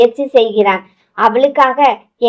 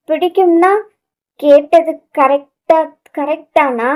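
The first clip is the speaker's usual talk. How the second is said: stammering; 4 semitones higher than usual. Acted. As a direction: trip over the words, flustered. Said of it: "திக்கி திணறி பேச".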